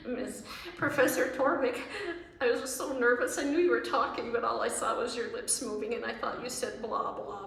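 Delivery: lightly voiced flustered student; nervous student voice. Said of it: "as one student said to me".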